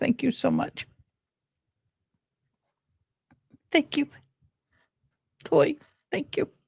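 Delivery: breathy, tearful half-whisper through crying. Thanking someone while trying not to cry, crying while talking. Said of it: "I gotta stop crying".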